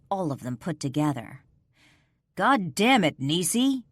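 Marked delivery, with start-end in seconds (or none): 2.3-3.8 angry yell, louder. Acted. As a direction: shout her name in anger. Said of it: "Don't yell at me".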